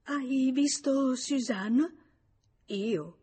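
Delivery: high, drawn-out, anxious question; distraught, halting and high; stammering. A narrator's reading. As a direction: falter slowly through the question in alarm. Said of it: "Lei balbettò".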